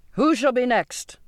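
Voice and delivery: narrated scream, held back; mild scream. A narrator's reading. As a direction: challenge them in a high, contained cry. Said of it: "he screamed at them".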